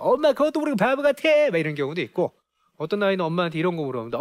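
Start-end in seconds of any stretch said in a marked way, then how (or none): 0.0-1.2 high mock-taunting child's voice; teasing child. Child making fun of mom for not knowing, teasing. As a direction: make fun in a higher, childish pitch. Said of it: "엄마를 놀리는 경우도 있어요".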